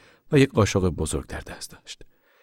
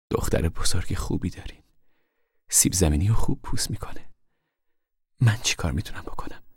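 put-on a sick old woman, half whispered; faint whispery voice of an ailing woman; frail old woman. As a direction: voice Sairy as weak and worn, barely above a whisper. Sick Sairy speaks to Ma.

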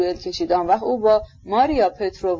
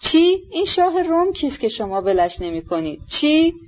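alarmed bewilderment; 8 semitones higher than usual. Acted. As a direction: demand an answer in disbelief. Bewildered son questions raving father.

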